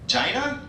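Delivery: "Gina" said to rhyme with China; "Gina" with a long i, rising at the end; mispronounced name. Retold or imitated. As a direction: say "Gina" as JY-nuh, questioning.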